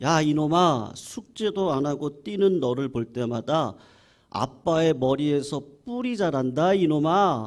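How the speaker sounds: put-on scolding, yelling tirade. Retelling a father yelling again at his child: imitating a father yelling. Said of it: "아빠가 또 이렇게 소리를 지르는 거예요".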